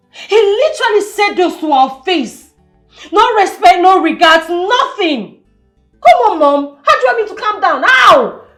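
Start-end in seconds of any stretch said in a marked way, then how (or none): 6.0-8.5 agitated, rising to a loud finish; heated, hurried complaint; exasperated protest. Acted. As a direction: protest hotly to your mother. Daughter protests being told calm down.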